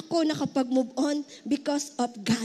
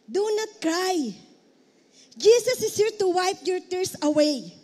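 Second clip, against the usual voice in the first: gentle comfort; slower than usual. Acted. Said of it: "eto sabi ni Jesus sa widow".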